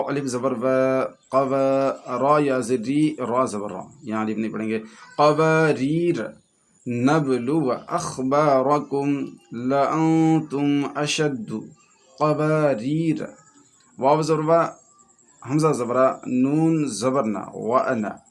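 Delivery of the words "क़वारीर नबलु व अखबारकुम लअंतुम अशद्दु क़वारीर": slow joined-up reading; blended recitation. Shown as a demonstration. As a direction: recite slowly, syllables flowing together.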